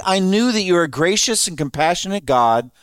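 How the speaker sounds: annoyed Jonah. Retold or imitated. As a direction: grumble like a fed-up prophet. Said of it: "Said it like that".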